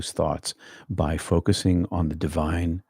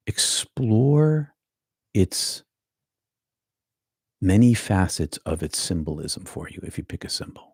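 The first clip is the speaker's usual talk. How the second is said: whispered guidance. Shown as a demonstration. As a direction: breathe the words to the listener. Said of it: "whispered meditation guidance".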